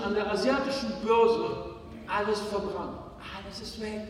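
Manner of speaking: a mock-weeping victim who lost everything; tearful brother. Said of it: "Bruder, unter Tränen".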